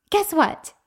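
high, loud mock good-news announcement; big hammed-up "guess what" delivery; imitating cheerful announcement. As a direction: act out a mom breaking wonderful news to a child. Mom's acted announcement to crying child.

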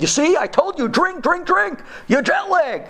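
high, pushy repeated drink drink drink; lightly hammed-up husband nagging her to drink; mock insistent husband.

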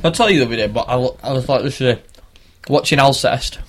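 mouth full. Real, not acted. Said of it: "Sorry, I'm just eating it".

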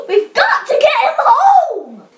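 high-pitched, urgent outcry; urgent yell. A narrator's reading. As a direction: cry it out high as a frantic aunt. Aunt yelling to Austin in story.

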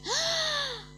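amazed exclamation. Retold or imitated. Girl realizing the promise came true, amazed. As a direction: exclaim in delighted disbelief.

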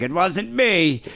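high, drawn-out mock protest; dad's denial. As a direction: stretch out an imitated innocent denial. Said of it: "And my dad's like".

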